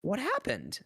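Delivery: high-pitched mock lament; mock sadness. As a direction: wail lightly as if abandoned, half laughing. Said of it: "Yeah, it was very sad".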